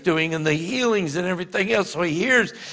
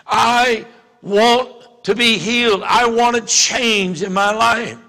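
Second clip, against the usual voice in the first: pleading; 4 semitones higher, 3 dB louder than usual. Acted. Preacher voicing heartfelt plea.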